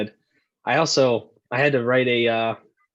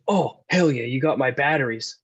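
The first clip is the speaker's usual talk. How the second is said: suddenly pleased. Retold or imitated. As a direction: imitate a mood flipping to friendly. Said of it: "tone of voice completely changed".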